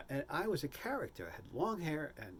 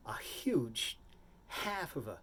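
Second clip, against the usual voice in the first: whisper; slower than usual. Acted. Whispered word in beard story.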